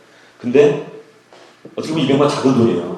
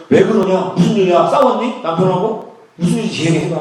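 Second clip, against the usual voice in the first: alarmed big brother asking what's wrong; urgent concern; 5 semitones higher than usual. Retold or imitated. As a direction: press her anxiously for what happened. Brother urgently asks crying sister.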